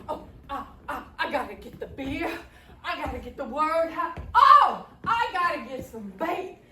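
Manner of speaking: sputtering, excited stammer with bursts of volume. Acted. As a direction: trip over the words in excitement. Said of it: "the sheriff was so excited".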